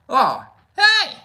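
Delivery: very high, loud squeaky yelp; squeaky mouse. Retold or imitated. Mouse yelping high and loud at the man. Mouse voiced, reply to speaker.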